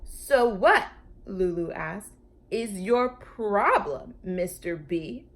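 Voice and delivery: slow, pointed question; challenging. Acted. Lulu challenging the Brontosaurus, slow and pointed. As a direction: drag it out, daring him to answer.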